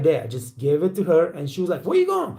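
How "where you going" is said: much higher, startled squeal; mock shocked question. Manager startled as the waiter quits, high mock alarm. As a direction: imitate the manager's disbelief as he leaves.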